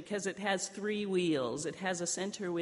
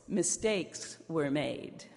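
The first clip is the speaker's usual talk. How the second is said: evasive passive voice; much slower than usual. Shown as a demonstration. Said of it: "we use the passive voice".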